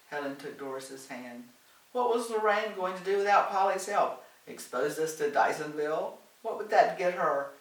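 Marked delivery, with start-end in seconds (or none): 1.9-7.5 higher, louder indignant questions; heated indignation. A narrator's reading. Helen rants to Doris about Lorraine, indignant. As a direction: fire off the questions in exasperation.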